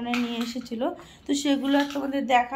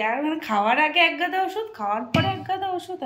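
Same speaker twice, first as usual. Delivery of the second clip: higher, rising complaint about all the pills; exasperated grumble; 5 semitones higher, 4 dB louder than usual. Real, not acted. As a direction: grumble through a tiresome list. Grumbling about piles of medicine. (বিরক্ত হয়ে, গলা চড়িয়ে)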